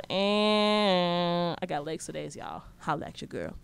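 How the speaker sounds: "legs for days" slow and sly at normal level; sultry brag. Real, not acted. Showing off her legs to viewers, slow sly brag.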